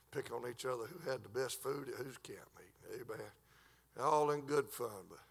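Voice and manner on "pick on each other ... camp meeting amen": unvoiced confiding whisper. Real, not acted. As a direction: let the congregation in on a secret. Confiding aside.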